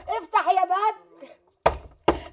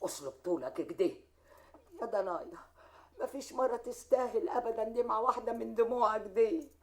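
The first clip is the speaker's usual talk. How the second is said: tender soothing; 5 semitones lower than usual. Acted. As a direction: hush him gently like a hurt child. Mother soothing her grieving son.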